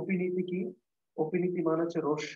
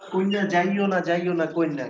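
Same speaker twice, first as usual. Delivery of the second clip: Barishal dialect plea. Retold or imitated. Teacher voicing a Barishal villager begging কন্যা to stay.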